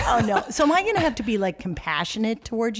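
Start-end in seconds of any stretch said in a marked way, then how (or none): 0.5-1.4 laughing. Real, not acted. Teasing laugh at friend.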